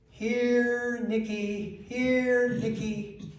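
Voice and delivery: high calling voice; wife calling the dog. Retold or imitated. Parrot mimicking the wife calling the dog, high. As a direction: call the dog like the wife does. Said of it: "in my wife's voice and with her tone".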